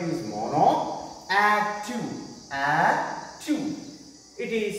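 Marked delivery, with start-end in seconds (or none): 1.3-2.0 split into syllables. Shown as a demonstration. Teacher showing a two-syllable word, ADD TWO split in two. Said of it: "two consisted. That's why it is di". 2.5-3.8 split into syllables. Shown as a demonstration. Teacher showing a two-syllable word, ADD TWO split in two. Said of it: "two consisted. That's why it is di".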